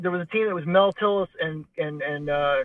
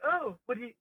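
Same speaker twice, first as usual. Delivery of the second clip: coy; 4 semitones higher, 3 dB quieter than usual. Retold or imitated. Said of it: "a very coy".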